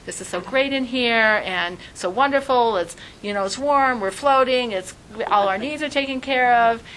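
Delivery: lightly voiced happy baby; contented unborn twin. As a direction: gush about how comfy it is in there.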